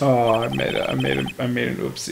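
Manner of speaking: soft, fast sheepish babble; mock flustered. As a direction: play the fake whoops. Prosecutor acts flustered.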